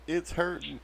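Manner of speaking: theatrical damsel moaning about her back; fake pained cry. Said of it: "and I say".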